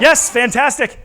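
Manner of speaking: big bright cheer; kids party magician. Acted. Cheering kids' answer.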